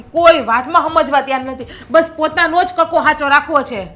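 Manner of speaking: wife snapping back at her stubborn husband; exasperated outburst. Acted. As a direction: finally lose patience with him.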